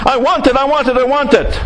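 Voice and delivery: lightly acted tantrum, no real screaming; tantrum-throwing kid. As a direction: repeat it like a kid carrying on. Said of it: "little kid throws a tantrum".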